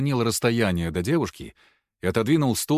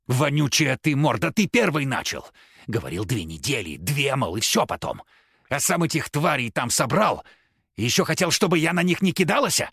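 put-on street-kid rant; 4 semitones higher than usual. Possessed girl cursing professor.

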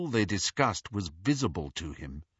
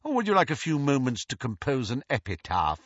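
ironic; 4 semitones higher, faster than usual. Acted. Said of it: "his voice heavy with irony".

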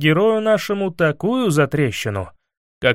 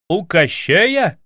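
grieved outcry; 3 semitones higher, much slower than usual. A narrator's reading. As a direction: cry it out in dismay. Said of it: "вскричал Иван горестно".

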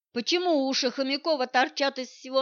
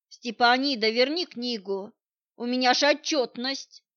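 pleading; 4 dB louder than usual. Acted. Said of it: "взмолилась она".

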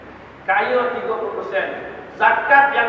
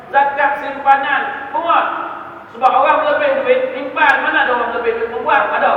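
forceful preaching; 4 semitones higher, 5 dB louder than usual. Real, not acted. Preacher drives his point forcefully.

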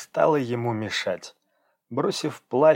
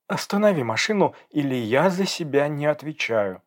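high, pleading threat; angry demand; 4 semitones higher than usual. Acted. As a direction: threaten him unless he stops. Girl demands he stop. (гневное требование, выше)

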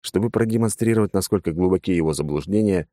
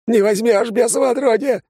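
hysterical yell; 5 dB louder than usual. Acted. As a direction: shriek in blind panic. Fleeing father screams at demon.

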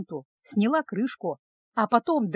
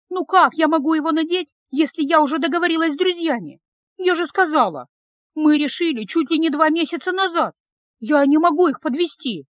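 put-on higher, louder exasperated young woman; loud higher girlish protest; upset protest; 6 semitones higher, 5 dB louder than usual. A narrator's reading. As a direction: defend herself, frustrated. Girl upset in quarrel.

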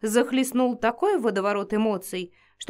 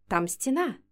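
plain reading voice

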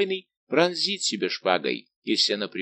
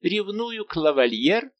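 high, loud and slow, full of scorn; haughty outrage; 10 semitones higher, 4 dB louder, slower than usual. A narrator's reading. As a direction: draw it out with lofty disdain. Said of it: "надменно воскликнула принцесса". (надменно, высоко, громко и медленно)

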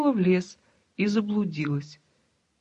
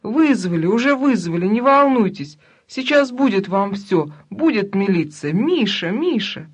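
wild scream; 5 dB louder than usual. Acted. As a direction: scream back in panic. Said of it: "ответом был дикий крик". (дикий крик)

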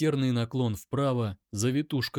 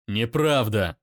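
loud shout back; loud pained shout; angry shout; 6 dB louder than usual. Acted. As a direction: roar it in pain. Daimon shouts.

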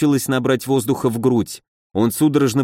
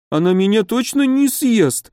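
much higher scared question; teeth chattering; 8 semitones higher than usual. A narrator's reading. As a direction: ask fearfully, teeth chattering. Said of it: "стуча зубами". (испуганно, стуча зубами)

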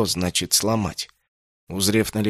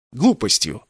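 curt retort. Acted. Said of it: "отрезал Инсанна".

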